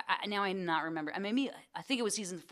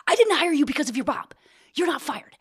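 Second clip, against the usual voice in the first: raised, insistent reassurance; a louder, higher producer setting it straight; emphatic boss; 6 semitones higher, 6 dB louder than usual. Retold or imitated. Producer reassuring the new actress, raised and insistent. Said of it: "and he's like".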